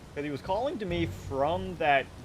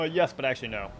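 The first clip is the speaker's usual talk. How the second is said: talking through hiccups; interrupted by hiccups; hiccuping; 4 dB louder, faster than usual. Real, not acted. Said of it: "I keep hiccuping".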